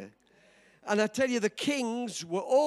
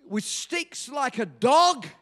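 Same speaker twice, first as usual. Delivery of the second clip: louder, higher furious challenge; angry giant shout; 3 semitones higher, 4 dB louder than usual. Acted. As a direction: bellow it at the boy. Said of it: "he shouted out".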